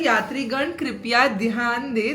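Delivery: railway station announcer voice; train announcement. Shown as a demonstration. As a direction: announce it like a platform speaker. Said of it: "क्या बोलना है?". (Railway announcement की आवाज़)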